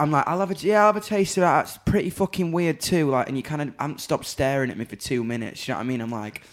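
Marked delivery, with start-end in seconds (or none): 0.3-3.1 mock eager reply. Acting himself offered a drink.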